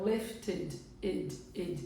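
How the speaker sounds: "lifted" in two syllables, ending in a short "id". Shown as a demonstration. Teacher applying the T rule, "lifted" with "id" ending. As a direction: sound "lifted" as lift plus "id", then "id" alone. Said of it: "acabou com T".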